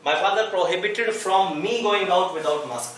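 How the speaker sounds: very slow, word by word; slow dictation. Shown as a demonstration. Teacher dictating a sentence to students, very slow. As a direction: spell it out slowly so students can write.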